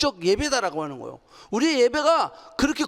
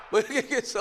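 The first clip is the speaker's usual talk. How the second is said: ordinary talk, nothing marked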